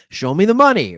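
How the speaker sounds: loud movie-line shout, quoting Jerry Maguire; Jerry Maguire quote. Retold or imitated. Host quoting Jerry Maguire to viewers, loud movie shout. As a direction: belt it like the famous movie line. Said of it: "We all learned that from Jerry Maguire".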